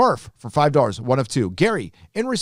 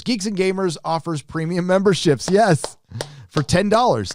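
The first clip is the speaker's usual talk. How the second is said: mock ad hype; 6 semitones higher than usual. Hyping premium membership ad.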